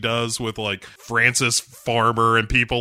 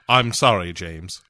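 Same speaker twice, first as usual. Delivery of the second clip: lower, trailing off sorry; sheepish apology; 7 semitones lower than usual. Pretend. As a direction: apologize meekly then fade out. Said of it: "She gives him the old".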